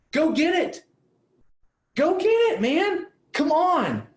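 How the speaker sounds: high, urgent rallying cry; rousing push. Acted. Coach urging business owners to go for it, high and rallying. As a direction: fire them up to go get it.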